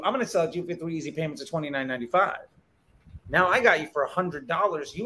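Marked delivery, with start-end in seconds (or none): 0.0-2.5 infomercial pitch. Acted. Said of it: "but wait, there's more infomercial technique".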